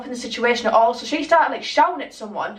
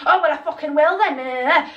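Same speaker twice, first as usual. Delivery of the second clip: higher-pitched mock huff; stroppy retort; 4 semitones higher than usual. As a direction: imitate her huffing off. Stroppy retort before storming off.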